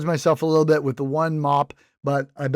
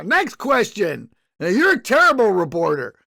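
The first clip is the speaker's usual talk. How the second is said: dismissive spokesman; 3 semitones higher, 3 dB louder than usual. Retold or imitated.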